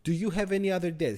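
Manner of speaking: retold panic at a friend's spending; freaking out. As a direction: blurt it out like you can't believe the number. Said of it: "I'm freaking out".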